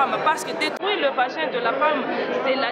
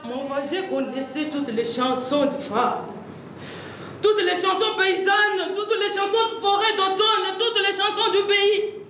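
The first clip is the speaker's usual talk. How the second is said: stage recitation rising after the first line; theatrical monologue; 6 semitones higher than usual. Acted. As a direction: build the list like an incantation. Joue un monologue de la pièce. (monologue de théâtre, déclamation qui monte)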